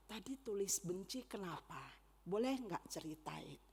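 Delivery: soft, coaxing parent question; gentle asking. Retold or imitated. Mother asking her child at nap time why they felt hate, gently. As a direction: ask softly, inviting the child to share. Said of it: "baru saya tanya".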